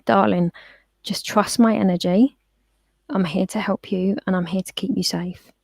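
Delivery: calm, soothing words to a frightened dog; calm reassurance. Retold or imitated. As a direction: gently ask for trust, unhurried. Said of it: "I'd got my energy very calm".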